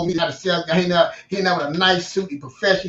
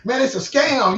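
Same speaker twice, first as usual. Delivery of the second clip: higher, indignant retold rant; going off; 8 semitones higher, 3 dB louder than usual. Ranting to his wife about the loan, going off. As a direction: blow up at the idea it's a scam. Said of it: "I'm going off like".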